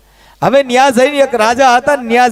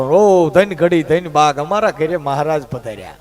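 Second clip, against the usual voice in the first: slow, low flattering chant; fawning welcome; 7 semitones lower, 3 dB quieter than usual. Retold or imitated. Guru flattering the richly dressed bhagat, slow. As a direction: greet the rich guest with oily reverence, slowly. Guru fawns over rich guest.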